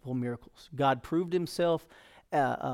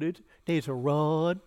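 hesitant answer; slower than usual. Acted. Voices Moses answering God, hesitant.

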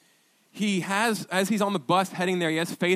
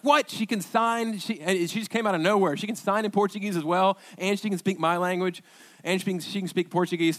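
mock astonishment, pitched up at first; amazed retelling; 4 semitones higher than usual. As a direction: act out happy disbelief at the interpreter. Acts out his amazed reaction.

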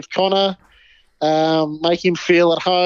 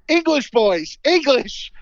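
put-on higher pleading English, boys; pleading mock plea; 8 semitones higher, 3 dB louder, slower than usual. Kobe begging the Irish boys for English, mild pleading. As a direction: beg them for English, lightly. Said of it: "sitting there going".

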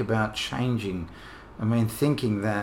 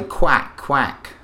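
quacking like a duck; a short clipped duck quack; 2 semitones higher, 4 dB louder than usual. Shown as a demonstration. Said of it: "we say".

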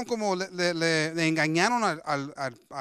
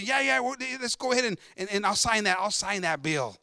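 a touch of excitement, easing off; excited king; 3 semitones higher than usual. Acted. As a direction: play a flattered king eagerly agreeing. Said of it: "they get him all excited".

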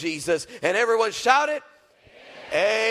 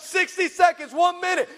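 director's countdown; 10 semitones higher, 5 dB louder than usual. Retold or imitated.

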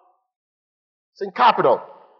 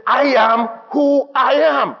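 high, slow, shouted declaration; upset God; 8 semitones higher, slower than usual. Retold or imitated. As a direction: pound out each word, upset. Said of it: "God was getting upset".

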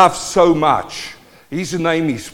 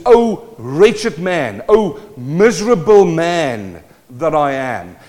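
slow, drawn-out lament from the pulpit; preacher acting out a mild lament; dramatic scripture cry; slower than usual. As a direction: cry it out slowly, stretching the key words. Preacher dramatizes Paul's cry of misery.

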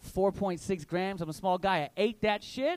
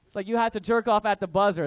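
normal talking voice

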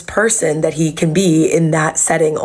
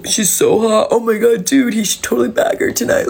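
lightly mocked excited guys, pitched up; imitated bro hype; 4 semitones higher than usual. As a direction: mimic the boys egging each other on. Mimics guys hyping up a girl.

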